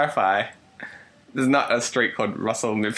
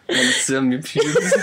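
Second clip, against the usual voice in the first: put-on French accent; slower than usual. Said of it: "French isn't a bad go-to".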